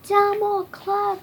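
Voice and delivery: high, loud, drawn-out yell. A narrator's reading. Rosie hurling back the insult, yelled. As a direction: yell it out slowly. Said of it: "Rosie yelled".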